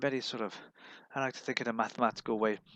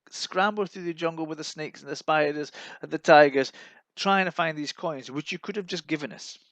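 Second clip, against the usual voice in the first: indignant complaint; 5 semitones higher, 4 dB louder than usual. Acted. Complaining to Sir Francis.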